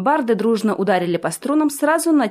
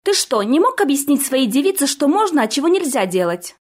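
higher, louder reproach; exasperated scolding; 6 semitones higher, 3 dB louder than usual. A narrator's reading. Orti berating prince over his wife, exasperated scolding. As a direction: demand it, exasperated.

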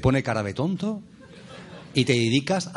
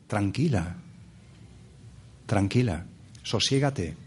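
lower, calming voice; soothing; 5 semitones lower, 5 dB quieter, slower than usual. Acted. Speaker reassuring the restless mind, soothing. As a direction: settle a restless mind gently.

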